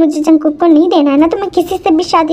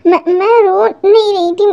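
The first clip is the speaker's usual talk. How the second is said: a touch of crying in the voice; choked, tearful protest that she isn't crying; tearful denial. Acted. Bride to in-laws, denying tears, slightly choked. Tae crying after family argument.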